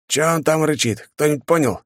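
high, puzzled soldier voice; puzzled, asking his mates; surprised soldier. A narrator's reading. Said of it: "удивился один из бойцов".

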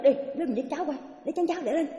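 put-on a busy old woman barking orders, mildly; bossy order. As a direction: order them around impatiently. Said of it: "Bà nói được chứ".

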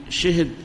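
شهد as "shihid"; short i after both sh and h in شهد; fourth dialect form. Shown as a demonstration. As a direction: say شهد as shi-hid. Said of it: "تزيد الرابعة هذه".

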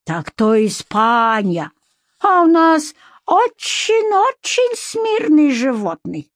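put-on high, slow, reproachful accented voice; thin reproachful man's voice. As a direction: chide her in a thin high voice. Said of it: "тонким голосом произнёс Абдурахман".

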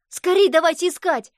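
high, loud urgent call; rally the class to search; shouting. A narrator's reading. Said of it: "крикнул Боря Мессерер". (громкий высокий крик)

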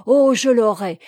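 fired-up exclamation. A narrator's reading. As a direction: burst out with passionate resolve. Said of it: "reprit-il en s'animant".

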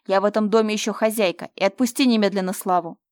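loud stern order; commanding. Acted. Mira orders Fyodor to let Slava go, loudly. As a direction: assert authority as mistress.

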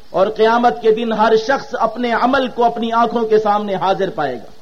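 ordinary delivery

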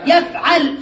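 يفعل said yaf-'al, second vowel a; fatha on ain. Shown as a demonstration. Teacher giving present-tense patterns, يفعل as yaf'al. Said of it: "والفتح".

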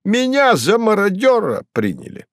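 excited cry. A narrator's reading. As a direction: blurt it out thrilled. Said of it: "закричал возбуждённый и радостно Бегемот".

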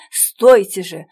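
стойте же called out loud; calling out to stop her. Acted. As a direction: call after her down the alley. Man calls after fleeing woman.

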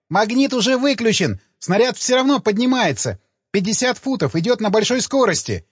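high, frantic panicked report; panicked cry. A narrator's reading. Engineer tells the helmsman the machine still rises, high panicked cry. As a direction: blurt it out in panic.

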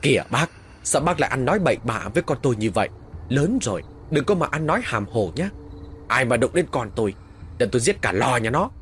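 angry shout. Acted. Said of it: "Còn bố tôi thì quát lên".

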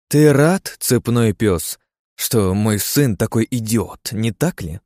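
caustic. Acted. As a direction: sneer it out slowly. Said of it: "Едко полюбопытствовала ядовитая камелия".

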